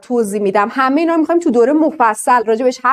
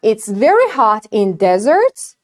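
It's very hot in deserts, spoken very slowly, each word clear; very slow demo; 4 semitones lower, much slower than usual. Shown as a demonstration. Teacher reads the example very slowly for students. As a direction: stretch every word for learners.

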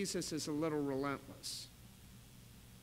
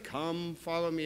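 gentle. Shown as a demonstration. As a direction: say it gently, like an invitation. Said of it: "It's not gentle".

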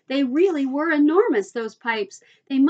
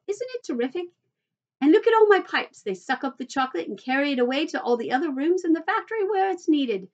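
high-pitched, lively boasting; excited showman; 3 semitones higher than usual. Acted. Mister Wonka shows visitors his chocolate river, excited and proud. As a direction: show off your marvel with delight.

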